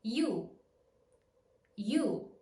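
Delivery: I glided into stressed U; you diphthong, stressed U. Shown as a demonstration. Teacher modelling you for learners with stressed U. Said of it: "I plus a stressed U makes you".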